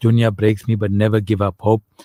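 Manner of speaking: ordinary talk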